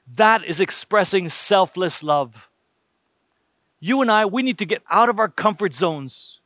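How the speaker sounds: ordinary delivery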